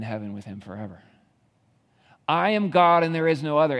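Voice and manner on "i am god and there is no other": louder, emphatic proclamation; God proclaiming. Acted. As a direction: declare it with weight. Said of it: "And then he says".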